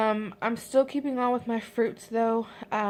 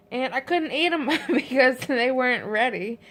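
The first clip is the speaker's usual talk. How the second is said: laughing; 3 semitones higher, 4 dB louder than usual. Real, not acted. Laughing at unripe fruit.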